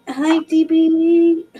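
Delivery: slow, laughing hello; drawn-out giggly hi; laughing greeting. Real, not acted.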